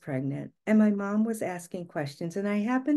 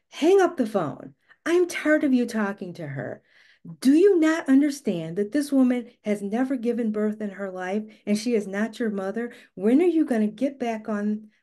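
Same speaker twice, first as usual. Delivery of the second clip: snapped; 3 semitones higher, 6 dB louder than usual. Retold or imitated. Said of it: "And my husband kind of snapped".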